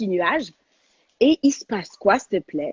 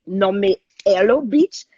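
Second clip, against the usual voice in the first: gloating; 4 dB louder, slower than usual. Real, not acted. Gloating over the retweet.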